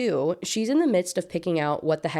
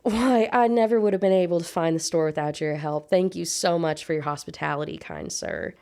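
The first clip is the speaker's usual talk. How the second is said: Southern belle. Acted. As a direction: play up the sweet Southern accent. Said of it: "With my best Southern belle impression".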